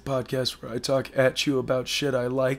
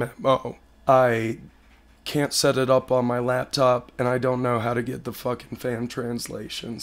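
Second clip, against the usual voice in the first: hoarse sick voice. Real, not acted. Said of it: "I sound like shit right now".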